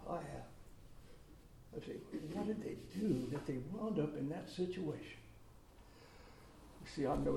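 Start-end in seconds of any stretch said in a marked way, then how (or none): 2.3-5.2 quiet self-quote. Retold or imitated. Quoting own judging thought.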